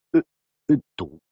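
halting, groping for the answer; hesitant stammer. Acted. Loser asked to bet again, stammering.

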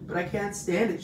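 high, loud protest; shout. A narrator's reading. Pig can't stand losing spider, shouting. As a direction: shout it out in distress. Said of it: "shouted Wilbur".

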